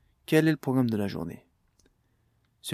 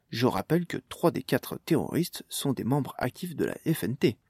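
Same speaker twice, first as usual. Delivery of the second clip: lightly voiced TV news anchor; news read; 2 semitones higher than usual. TV anchor reporting the attack to viewers, light news read. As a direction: read it like a mild evening news bulletin.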